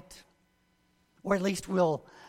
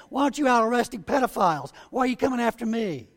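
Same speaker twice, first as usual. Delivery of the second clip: higher and fast, mock outraged; a drug dealer protesting his arrest, voice raised; indignant protest; 5 semitones higher, faster than usual. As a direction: fire back at the officer in mock outrage. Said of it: "they'll say".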